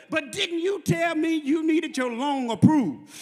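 retold pastor hammering the point home; insistent pastor. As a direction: preach the question, stretching the words. Pastor presses his question harder, retold.

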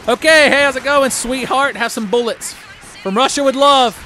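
high, loud sing-song taunt; mock sweet greeting. Gamer taunting zombies in a sweet voice. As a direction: greet them sweetly while shooting. Mocks enemy while shooting.

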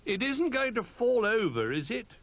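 high, loud little bear voice; Little Bear calling. A narrator's reading. Little Bear calling about the wobbly tree, high and worried. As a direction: call out in a small creature's high voice. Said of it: "called Little Bear".

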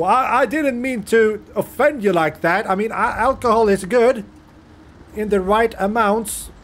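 high, hurried placating; nervous apology. Real, not acted. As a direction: apologise in a panic.

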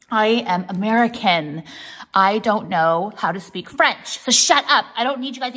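loud, emphatic self-defense; mock-defensive. Real, not acted. Vlogger defending her French to viewers, mock-defensive.

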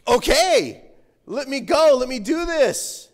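loud, ready-to-go okay; eager agreement. Acted. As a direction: jump at the task, acted keenness. Imagined eager response from Moses.

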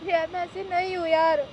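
crying. Real, not acted. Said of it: "रो क्यों रही हो?".

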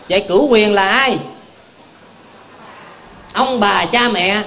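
ordinary delivery

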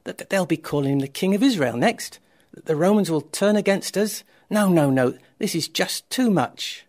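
loud, high, agitated questions; alarmed outrage. A narrator's reading. Pharisees meet about the miracle, alarmed and indignant. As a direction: build indignant panic about losing power.

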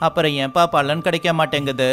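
plain reading voice

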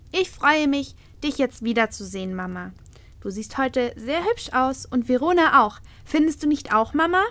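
put-on little girl. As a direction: speak as the small daughter. Little daughter speaks.

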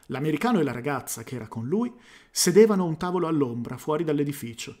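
smoother, even narration without stumbles; careful reread. Real, not acted. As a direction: read the paragraph cleanly and evenly. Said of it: "Lo rileggo questo primo capoverso".

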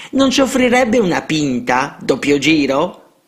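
put-on a high, cheeky boy's voice begging for drinks; cheeky street boy. A narrator's reading. Street boy to a priest, high and cheeky. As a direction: wheedle like a street kid after a free round. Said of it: "soggiunse un altro".

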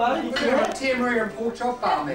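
put-on London accent. Joking about the barbie plans, London accent. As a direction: play up a London accent loudly. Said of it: "a London accent".

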